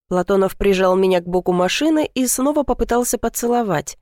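ordinary delivery

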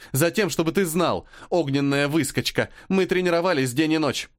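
high, ringing, angry boast; ringing crystal chime voice. Acted. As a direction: throw it at him, ringing and fierce. Angry rival girl boasts. (звенящий, злой голос)

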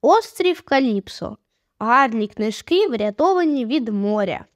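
slow, measured sign reading; deliberate, spaced-out reading of a title; reading a sign aloud. A narrator's reading. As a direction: read out the shop sign slowly, word by word. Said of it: "де було написано".

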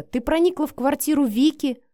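furious man accusing a woman; enraged. Acted. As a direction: turn savage on her. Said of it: "озверел Матвей".

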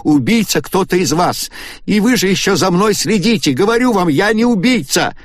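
very high, loud screaming; hysterical shout. A narrator's reading. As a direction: scream the accusation. Истерика Агаты. (Агата в истерике обвиняет остальных)

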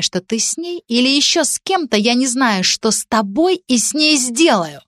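put-on a scorned girl turning on him, shrill with jealousy; raving girlfriend accusing Dan, pitched high and slow; jealous hysterical girl. Jealous girl voiced higher.

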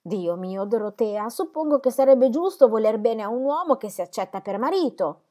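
Celia reasoning. A narrator's reading.

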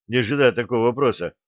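usual speaking voice

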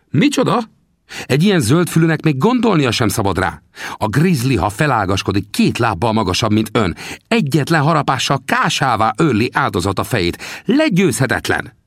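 put-on high, teasing little old man's voice; old trapper Sam. Sam teasingly asks the narrator about his bones, high old voice. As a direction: needle the greenhorn from a high perch. Sam's voice in dialogue.

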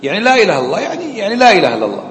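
imitating someone failing to explain the phrase; mock floundering answer. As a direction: parody a student stuck repeating the words. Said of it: "طيب، فسر لي هذا".

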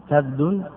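"كبد" as kabdun, a then no vowel; "كبد" closed up as kab-dun; variant kabd. Shown as a demonstration. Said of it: "ويجوز إسكان الباء مع فتح الفاء".

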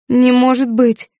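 disbelieving protest. Acted. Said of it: "не соглашалась Юдив".

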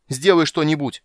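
high, loud panicked scream; panicked shout. A narrator's reading. Eben backing away from the ghost, panicked shout. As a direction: shriek for help backing away. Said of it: "закричал Эбен".

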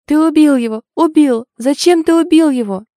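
high, loud screaming accusation; a girl shrieking at her boyfriend's killer; hysterical accusing scream. Acted. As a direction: scream it at him through wailing. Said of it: "Девушка завыла в голос".

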